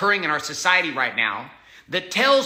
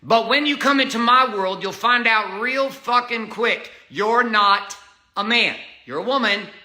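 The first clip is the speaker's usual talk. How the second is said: building into a heated tirade; heated rising rant; 6 semitones higher than usual. Real, not acted. Talking back to critics, heated and rising.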